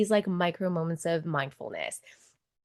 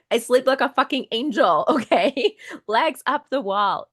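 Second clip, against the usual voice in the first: high, louder, laughing brag; laughing boast; 5 semitones higher, 4 dB louder than usual. Real, not acted. Telling the host how well she sleeps, laughing boast.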